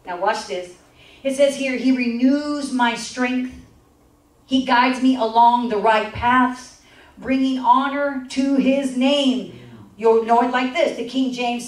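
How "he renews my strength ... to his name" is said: scripture reading. Acted. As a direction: read it out slowly and reverently.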